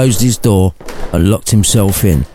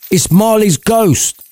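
much higher, slow, triumphant reveal; game show answer; 12 semitones higher, slower than usual. Acted. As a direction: announce it like the winning answer. Scrooge shouts answer, game-show style.

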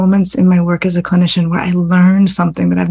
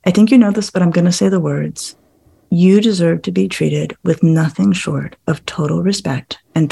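sincere heartfelt words; 2 semitones lower than usual. Shown as a demonstration. Father telling daughter she deserves respect, tender and sincere. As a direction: say it gently to your teenage daughter. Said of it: "what it would feel like if you just said to her".

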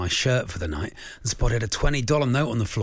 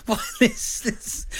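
baffled; much slower than usual. Real, not acted. Reading a baffling listener text.

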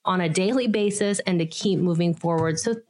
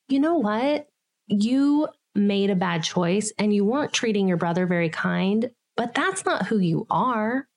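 retold comforting words. Mother comforting upset son.

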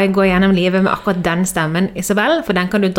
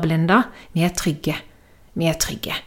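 reassuring husband; 5 dB quieter than usual. Retold or imitated. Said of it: "Han bare".

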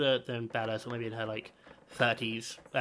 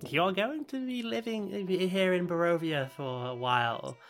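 menacing granny voice; 4 dB quieter than usual. Acted. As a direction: warn him darkly, voice dropping.

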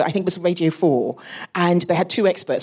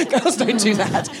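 laughing; 4 semitones higher, slower than usual. Retold or imitated. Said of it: "I don't know why they've got that accent".

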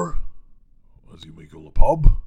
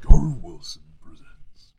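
trailer guy voice; 6 semitones higher, 13 dB louder than usual. Shown as a demonstration. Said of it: "my trailer guy voice".

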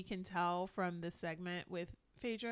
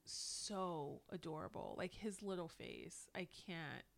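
hushed gushing; 8 dB quieter than usual. Real, not acted. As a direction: melt over the little face. Gushing about cute child.

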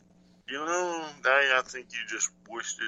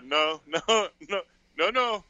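indignant prince; 3 semitones higher than usual. Retold or imitated. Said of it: "the prince would be like".

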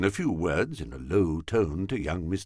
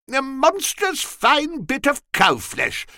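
put-on drunken low fellow. A narrator's reading. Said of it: "a low fellow who was fuddled".

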